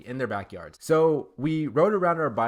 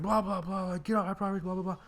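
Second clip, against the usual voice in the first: mock yelling old guy; 7 semitones higher, faster than usual. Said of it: "yelling at us".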